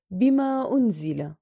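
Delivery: lengthened final vowel in "بما"; madd munfasil. Shown as a demonstration. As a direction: stretch the aa ending "بما" before "أنزل". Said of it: "منفصل".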